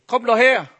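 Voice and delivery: loud, high call of a parrot. Acted. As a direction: holler it over like a cheeky bird. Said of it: "der Papagei ruft ihn". (lauter, hoher Papageienruf)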